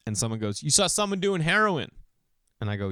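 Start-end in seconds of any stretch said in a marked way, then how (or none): 0.6-1.9 mock astonishment. Audience member's shocked guess, acted.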